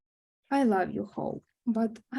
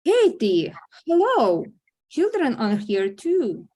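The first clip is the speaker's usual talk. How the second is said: sharp, louder warning call of a name; scolding; 5 dB louder than usual. Acted. Mother scolds Katie for swearing in front of the kids, loud reproach. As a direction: rein her in with a loud, pointed hello.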